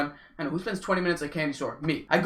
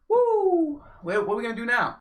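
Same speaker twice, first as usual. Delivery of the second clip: imitating girls; 6 semitones higher than usual.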